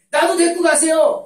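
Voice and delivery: loud, high-pitched demand; demanding plea. Acted. Preacher shows how the robber did not pray, loud demand. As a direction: call it out high and pushy. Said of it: "그게 아니에요".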